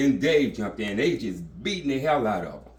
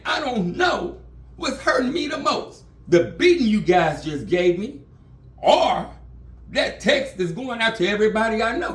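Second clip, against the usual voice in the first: high, loud crying plea; a crying pastor begging, high and loud; imitating crying; 8 semitones higher, 3 dB louder than usual. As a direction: wail it out like a beaten man. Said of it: "he was literally crying".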